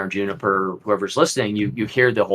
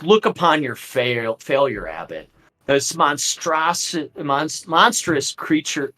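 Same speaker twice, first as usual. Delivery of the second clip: scornful Strahd; 4 semitones higher than usual. Acted. Strahd points at the failure.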